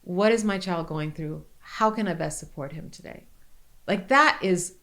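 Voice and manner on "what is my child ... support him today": gentle inner question. Retold or imitated. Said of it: "just going".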